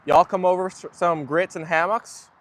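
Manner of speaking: reluctant, lightly done Southern impression; amateur Southern US accent on request. Shown as a demonstration. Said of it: "Always easier to do a Southern impression with y'all".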